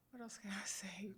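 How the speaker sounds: whispered aside. Real, not acted. Unsure aside, laughing.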